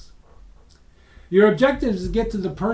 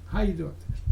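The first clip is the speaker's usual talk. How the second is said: same opener said plainly and softer; softer repeat; 7 dB quieter, faster than usual. Shown as a demonstration. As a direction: let it drop as a throwaway. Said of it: "it's a nice question".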